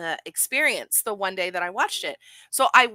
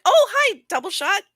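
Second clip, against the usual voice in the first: excited greeting; 11 semitones higher, 7 dB louder than usual. Real, not acted. Greeting a chat regular.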